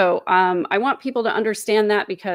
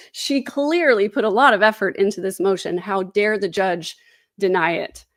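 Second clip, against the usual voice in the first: mock indignation. Streamer jokes about the judge denying the motion, mock indignation. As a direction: play affronted on her behalf, slowing for the punch line.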